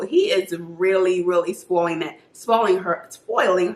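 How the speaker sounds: slight lisp through a retainer; wearing a retainer. Real, not acted. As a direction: talk around a dental retainer. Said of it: "I can't talk with this retainer".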